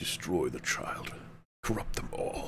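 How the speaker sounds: breathy, sinister, evil whisper. Reading out a line after being asked to: evil voice. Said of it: "Evil voice".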